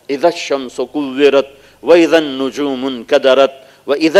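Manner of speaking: slow chanted Arabic recitation; Quran recitation. Acted. Preacher recites verses of the earthquake, slow chant. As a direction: intone each verse slowly.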